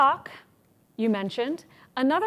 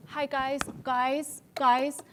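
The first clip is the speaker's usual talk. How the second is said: timid opening demo; 2 semitones higher than usual. Shown as a demonstration. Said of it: "No, don't do that".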